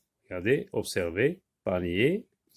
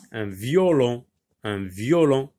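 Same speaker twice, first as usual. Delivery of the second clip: "violon" said louder with a clear falling tune; teacher emphasis; 5 dB louder than usual. Shown as a demonstration. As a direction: stress "un violon" for the class. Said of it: "un instrument de musique".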